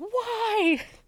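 acted-out exasperated cry, very high, drawn-out angry "why". Retelling a reaction to a horror episode: retelling own angry outburst. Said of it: "I was so mad".

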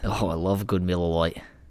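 put-on Australian accent. Answering a question about favorite beer, Australian accent. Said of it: "saying Miller Lite in an Australian accent".

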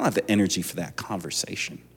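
quick, soft, condescending tone.

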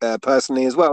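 ordinary talk

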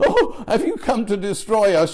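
mock intimidated, meek, cowed tone. Acting out the spirit's words as it backs down: acting intimidated, backing down. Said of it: "You can almost hear the change in his voice".

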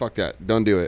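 ordinary delivery

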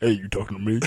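talking bird character voice. Imagining how a talking bird would have sounded: imitating a bird talking. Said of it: "the bird would have sounded like".

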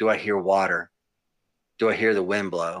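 ordinary delivery

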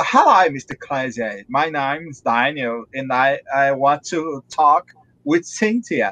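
put-on heavily laid-on, thick, low Australian accent. Retelling what an australian man said, heavy australian accent. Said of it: "Ele fala com um sotaque muito carregado".

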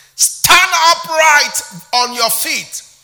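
loud, high, commanding preacher-like proclaiming call. Preaching on a Bible verse, acting out a quoted command: loud voice. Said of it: "Paul said with a loud voice".

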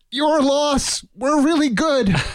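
high yell forced out through clenched teeth. A player voices their character calling out to the tower, shouting through gritted teeth. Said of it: "with gritted teeth, shout out".

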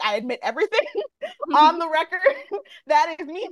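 mock, fast, high-pitched, laughing delivery.

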